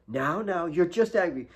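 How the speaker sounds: lightly voiced motherly calm; Mary soothing. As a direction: gently talk her down.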